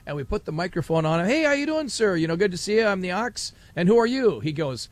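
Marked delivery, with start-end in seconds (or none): 1.3-4.4 chirpy greeting. Retold or imitated. Host greets official into microphone.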